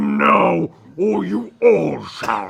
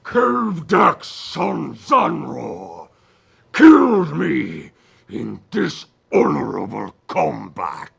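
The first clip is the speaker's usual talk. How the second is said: booming ghostly voice; 3 semitones lower than usual. Acted. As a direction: draw each word out, sinking low. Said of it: "you hear a voice come booming".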